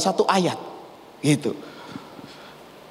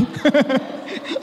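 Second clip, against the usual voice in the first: amused laugh; 8 semitones higher than usual. Real, not acted. Laughs at own Javanese phrase.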